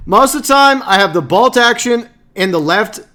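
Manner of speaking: fed-up gamer rant; exasperated explaining. Real, not acted. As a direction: explain the blunder in frustration. Exasperated explanation of his mistake.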